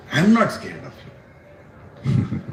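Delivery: drawn-out, very slow; slow tender assurance. Acted. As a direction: stretch each word gently. Prahlad to Narsingadev.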